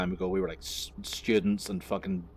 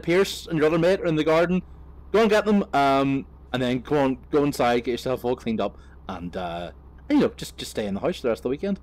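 louder, higher, breezy instructions; cheerful homeowner; 7 semitones higher, 8 dB louder than usual. Retold or imitated. Homeowner inviting the culprit inside, breezy and loud. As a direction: play the host brushing it off. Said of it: "He said".

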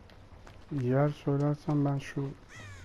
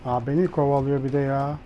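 being chased; 6 dB louder than usual. Real, not acted. Killer chasing her in game.

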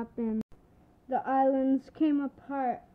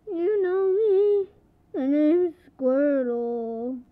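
slow, louder, drawn-out declaration; Squirtle voice; 2 semitones higher, 7 dB louder, slower than usual. Pretend. Squirtle toy proudly declares its name, slow. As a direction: lay the name out big and slow.

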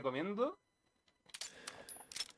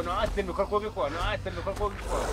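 fast, gushing mock-rave; lightly hammed-up fanboy gush; imitating himself; 4 semitones higher, much faster than usual. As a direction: parody your own hype, rushing.

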